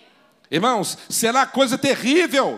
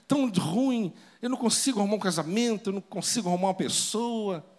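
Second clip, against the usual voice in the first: softer, fast lament about her luck; complaining young woman; 6 dB quieter than usual. Retold or imitated. Preacher imitating a single woman complaining, softer and hurried. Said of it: "Tem muitas moças que falam assim".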